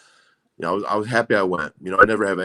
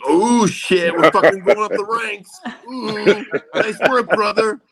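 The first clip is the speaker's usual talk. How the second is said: much higher, louder hammed-up bro cheer; hyped wrestling bro; 12 semitones higher, 6 dB louder, slower than usual. Wrestlers cheering a ratings bump, loud hammed-up bro voice. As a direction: ham up excited wrestlers bragging about ratings. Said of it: "people are like".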